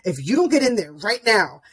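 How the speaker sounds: mildly stern parental order; stern warning. Retold or imitated. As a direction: imitate a firm warning to a child. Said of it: "I say something very sternly".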